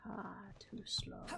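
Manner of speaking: breathy whisper of the taunt, slowed; mock the line under your breath; whispered echo. Streamer echoing a game taunt in a whisper.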